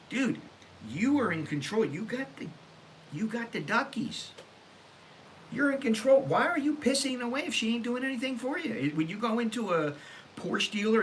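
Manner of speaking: retold rant to a fan. Telling a fan off in Starbucks, high and exasperated. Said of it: "I'm telling him flat out".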